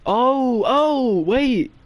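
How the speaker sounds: high, drawn-out dawning idea; mock sudden excitement. Clueless date interrupting the staring, mock excited. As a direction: re-enact a bright idea, pitched well up.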